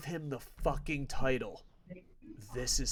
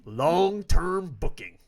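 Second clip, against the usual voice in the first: sarcastic; 3 semitones higher, 8 dB louder, much slower than usual. Real, not acted. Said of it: "repeated sarcastic phrase".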